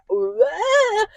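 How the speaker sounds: offended what. Retold or imitated. Mother acts offended at insults.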